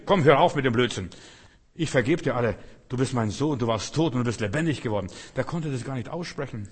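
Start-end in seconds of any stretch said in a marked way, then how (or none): 0.1-5.1 louder, eager father waving it off; forgiving father. Acted. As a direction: brush aside the apology joyfully. Father voiced forgiving son. (der Vater vergibt laut und freudig)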